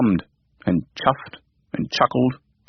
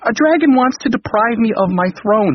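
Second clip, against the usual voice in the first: alarmed king; 10 semitones higher than usual. Acted.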